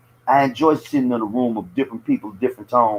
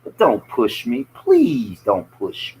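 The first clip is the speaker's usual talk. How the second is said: quoting a rapper; 4 semitones higher than usual. Retold or imitated. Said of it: "I'm like a rapper".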